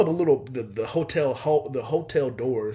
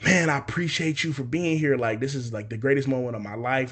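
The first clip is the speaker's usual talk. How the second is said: excited thanks. Retold or imitated. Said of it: "he's excited now".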